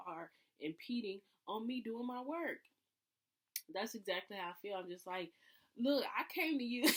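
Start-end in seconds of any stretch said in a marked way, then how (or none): 5.8-6.9 higher, louder, laughing through it; laughing protest. Pretend. Mocking her own childish complaint, laughing. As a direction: protest while cracking up.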